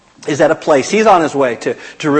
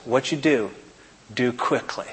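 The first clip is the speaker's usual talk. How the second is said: quiet voice; 2 semitones lower, 9 dB quieter than usual. Acted. Jesus quietly telling Judas to act, hushed. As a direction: let it sink to a near hush. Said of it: "in a quiet voice".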